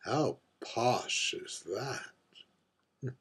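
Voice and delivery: arch, world-weary drag queen holding court at a bar; lightly voiced aging diva, wry and wistful over her gin; mature drag queen. A mature drag queen at the bar confides in the invisible bartender, arch and wistful.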